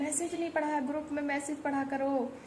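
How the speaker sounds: lightly mocked scolding from the class teacher; imitating the teacher's scolding. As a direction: play the strict online teacher telling a kid off. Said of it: "कह रहा है".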